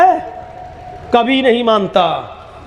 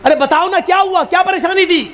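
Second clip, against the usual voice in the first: higher, wheedling "what happened, tell me"; lightly voiced sly holy man; coaxing holy man; 8 semitones higher than usual. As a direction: coax the disciple sweetly. Holy man coaxing his disciple.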